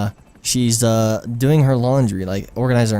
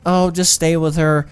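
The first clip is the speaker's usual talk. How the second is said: conscience; 6 semitones higher than usual. Retold or imitated. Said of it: "my conscience is talking to me".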